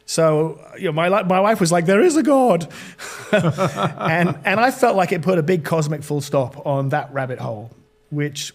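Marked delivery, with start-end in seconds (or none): 1.8-2.7 imitated exclamation. Wife's exclamation retold.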